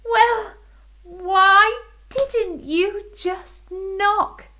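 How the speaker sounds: high, slow teasing voice; playful queen. Acted. Queen teasing the fairy about knocking. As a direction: tease her gently.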